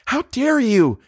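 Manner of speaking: very high, outraged cry; gasping outrage. A narrator's reading. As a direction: gasp it out in fury, pitched right up. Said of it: "she said, gasping".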